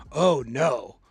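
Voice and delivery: low, sinking mock dismay; bummed. Casino stranger cornered by small talk, acted dismay. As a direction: groan it like someone dreading a chat. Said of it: "I wanted you to be bummed about it".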